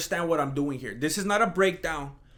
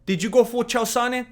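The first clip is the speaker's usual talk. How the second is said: puzzled fan; 6 semitones higher, 3 dB louder than usual. Retold or imitated. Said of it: "scratching their heads like".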